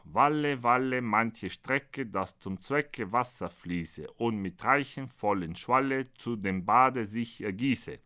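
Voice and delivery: measured, metrical verse reading; poem recitation. Acted. Author recites the sorcerer's apprentice to an audience, measured verse. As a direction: recite it in steady rhymed verse.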